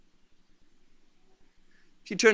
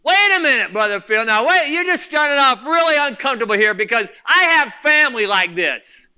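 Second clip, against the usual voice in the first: raised voice of an objecting listener; mock protest; 2 semitones higher than usual. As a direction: imitate a congregant cutting in to object. Voices an objecting congregation member.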